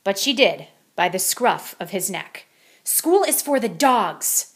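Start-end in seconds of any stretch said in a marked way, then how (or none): 2.8-4.5 slow, firm and emphatic. A narrator's reading. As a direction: lay down the law, word by word. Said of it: "stated Mama Junebug Jones emphatically".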